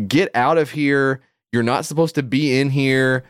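half-mocked aggressive shout-down, slow on the first line; retold angry attendant. Parking attendant to the taxi driver, mock aggressive. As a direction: imitate a hostile parking attendant waving them off. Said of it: "the guy is immediately on ten".

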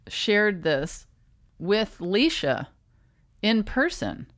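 pausing between hiccups; words broken up by hiccups. Real, not acted. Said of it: "Sorry for the hiccups".

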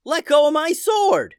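yelling. A narrator's reading. Addison shouting back at the Minotaur, high loud yell. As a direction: yell it as you hang on. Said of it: "yelled Addison".

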